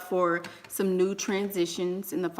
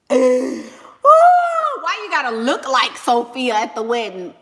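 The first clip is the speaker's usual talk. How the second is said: mock scolding; 4 semitones higher, 9 dB louder, slower than usual. Real, not acted.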